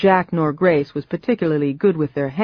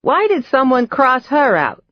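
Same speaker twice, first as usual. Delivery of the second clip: high, louder cackle turning curious; puzzled old woman; 8 semitones higher, 4 dB louder than usual. Acted. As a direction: wonder aloud like an old witch. Old woman questioning photo.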